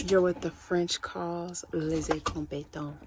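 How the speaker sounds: quiet, offhand repeat of the quote. Retold or imitated. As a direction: say it again under your breath. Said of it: "what movie that's from".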